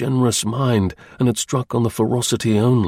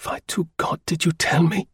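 low, resentful; 7 semitones higher than usual. A narrator's reading. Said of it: "it was low and resentfully".

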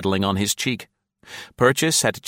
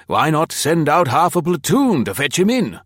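high, raised-voice challenge; crying out; 8 semitones higher, 4 dB louder than usual. A narrator's reading. Colonel thumping the table at the officials, crying out. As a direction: cry out the demand, pitch well up. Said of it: "he cried".

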